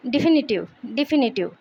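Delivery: डिफिनिटिव with the stress on FI; di-FIN-i-tiv, falling after FIN; stress on second syllable. Shown as a demonstration. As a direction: model डिफिनिटिव, leaning on FI. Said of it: "word stress फी पे आएगा".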